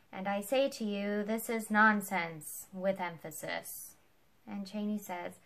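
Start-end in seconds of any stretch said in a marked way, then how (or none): 0.1-3.9 louder and slower, hammering every word; loud mock emphasis. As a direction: read the stage note aloud as if it were part of the speech. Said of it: "And Ford read it aloud".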